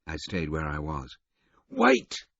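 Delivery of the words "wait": loud high urgent call. Acted. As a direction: call him back, urgent. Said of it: "he said urgently".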